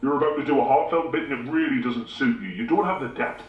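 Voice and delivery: conscience voice. Acted. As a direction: speak as his conscience.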